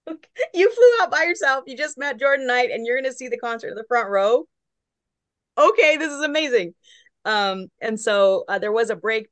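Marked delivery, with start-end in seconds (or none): 0.1-6.7 high, excited disbelief; retold amazed gushing; amazed friends. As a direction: gush in disbelief together. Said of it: "We're like".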